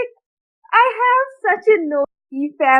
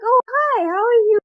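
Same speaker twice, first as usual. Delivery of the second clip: higher bright phone greeting; chirpy hi; 8 semitones higher than usual. Retold or imitated. Speaker answering her aunt, chirpy and higher. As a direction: play innocent and cheery. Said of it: "I'm like".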